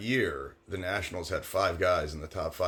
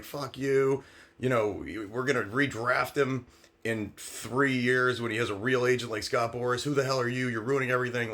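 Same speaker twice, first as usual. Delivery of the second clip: mild mock yell, pitched up; higher-pitched retold rant; retold screaming; 5 semitones higher than usual. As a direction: imitate an angry tirade without really shouting. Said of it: "starts screaming at me".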